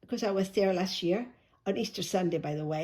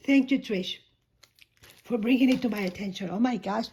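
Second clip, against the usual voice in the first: hoarse voice; 3 dB louder than usual. Real, not acted. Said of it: "I'm losing my voice".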